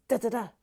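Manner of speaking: three short, even "da" syllables; imitated rhythmic ending. Musician voicing how the song ends, in short even beats. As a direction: tap out the gunfire rhythm by voice. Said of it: "And, and it ends".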